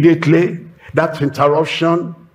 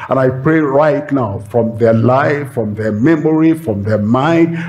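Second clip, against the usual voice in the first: earnest spoken prayer over the congregation; closing prayer. Real, not acted. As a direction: pray over the listeners, steady and sincere.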